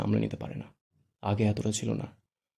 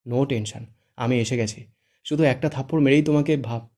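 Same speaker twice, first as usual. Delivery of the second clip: sly grin; 4 dB louder than usual. Acted. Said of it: "মিটিমিটি হেসে বলে".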